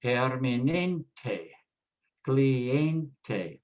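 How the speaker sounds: permanente and cliente stressed on NEN and EN; Spanish permanente, cliente, weight on next-to-last syllable. Shown as a demonstration. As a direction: say permanente as per-ma-NEN-teh, cliente as klee-EN-teh. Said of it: "stress on the second to the last".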